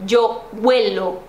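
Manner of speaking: slow "huelo", first syllable stressed. Shown as a demonstration. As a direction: land the weight on the start of "huelo". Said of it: "a primeira sílaba é a tônica".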